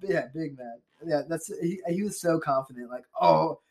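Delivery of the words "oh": higher, louder gloating German; smug German accent. Retold or imitated. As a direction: slowly boast like a cocky villain. Hitler voiced as overconfident.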